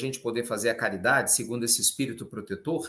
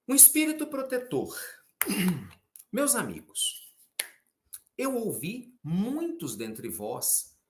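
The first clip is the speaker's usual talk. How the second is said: slow, higher, measured read-aloud; scripture reading; 4 semitones higher, 4 dB quieter than usual. Acted. Preacher reading a spirit's message to listeners, solemn scripture reading. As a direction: read it out slowly, with long pauses. Reads the Gospel passage aloud.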